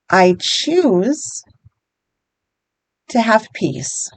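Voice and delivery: slow, measured repeat-after-me delivery; guided affirmation. Shown as a demonstration. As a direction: lead them through it slowly, phrase by phrase. Leads repeat-after-me tapping statements.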